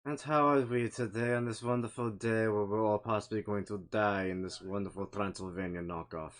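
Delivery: put-on Count-style Transylvanian accent. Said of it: "what's with the knockoff Transylvanian accent?".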